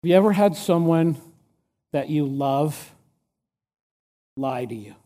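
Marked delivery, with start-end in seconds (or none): 1.9-5.0 hushed question. Real, not acted. Preacher's intimate rhetorical question.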